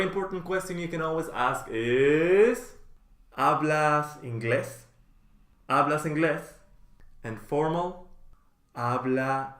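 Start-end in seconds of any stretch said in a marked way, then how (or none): 3.4-4.9 slow model. Shown as a demonstration. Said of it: "teacher models phrase twice". 5.7-6.5 natural speed. Shown as a demonstration. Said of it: "teacher models phrase twice".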